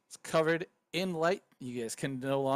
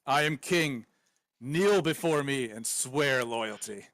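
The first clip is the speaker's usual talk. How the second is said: commanding king. Acted. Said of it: "he speaks with a clarity in common".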